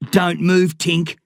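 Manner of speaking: put-on a boy barking at his friend to stay put; barked order. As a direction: bark it like a command. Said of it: "barked Eric".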